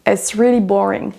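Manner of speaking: "boring" stressed on BO within the phrase; first-syllable stress. Shown as a demonstration. Teacher gives an example sentence, "boring" stressed on BO. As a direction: lean on BO in "boring". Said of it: "La première syllabe est prononcée plus fort".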